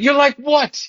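high, laughing retold incredulity; incredulous disbelief. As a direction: act baffled at the kid's nerve, laughing. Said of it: "I was like".

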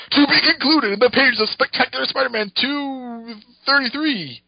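slow, high trailer announcer. Acted. Closing the issue for listeners, slow announcer read. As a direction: boom it out like a serial's end card. Reading comic's closing caption.

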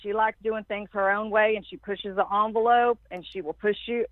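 lightly voiced Southern dad; imitating a father's Southern accent. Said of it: "my dad has this strong Southern accent".

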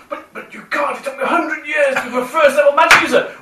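high, indignant wizard voice; magic user voice. Retold or imitated. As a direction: whine it like an old wizard. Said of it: "the magic user ... goes".

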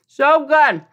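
delighted. Real, not acted. Tasting the muffin, delighted.

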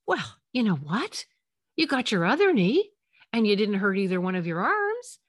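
mock upbeat, missing the point; dismissive silver lining. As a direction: brightly brush off a crying child's cut knee. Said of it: "You would not be saying to them".

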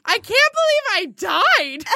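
high-pitched mock yell, half laughing; retold yelling. Woman retelling her ski accident to friends, mock yelling. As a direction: yell it in high, indignant disbelief. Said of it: "I'm just yelling".

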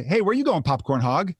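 high-pitched mock call-out; retold shout. Tipsy bar-goer hailing a woman with popcorn, mock shout. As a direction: call after someone, without a full yell. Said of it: "And I shouted".

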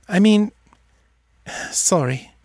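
put-on a girl correcting herself, confused; young girl voice. A narrator's reading. Seffi voiced by narrator.

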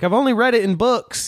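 Marge voice. Retold or imitated. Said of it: "And she's like".

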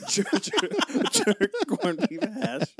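slow mock Rasta accent through laughter; hammy Jamaican lilt, giggling; Irish Rastafarian accent. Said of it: "Irish Rastafarian".

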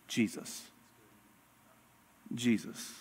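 soft breathy whisper of the name; almost whisper it, reverent; hushed. Acted. Hushed naming of Jesus.

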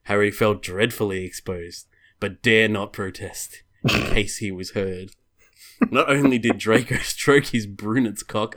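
measured storybook reading voice; story narration. Acted. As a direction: read it out like a storybook. Reads erotic fan fiction aloud.

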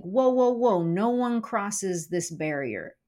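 mildly acted defensive halt; guard the boundary, slowing down; protective warning. Acts out anger guarding a barrier.

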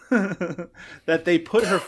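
laughter breaking into the story; slow down, trying to get through the giggles; laughing while telling. Real, not acted. Cracks up telling family story.

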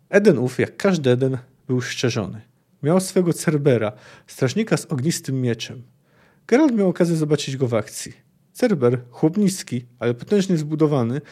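measured reading of a fantasy novel passage; calm storyteller reading aloud; story narration. A narrator's reading. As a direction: read it like an audiobook narrator. Reads Witcher passage aloud.

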